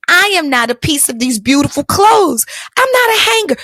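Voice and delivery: rising outraged declaration; indignant. Retold or imitated. Indignant list to the woman.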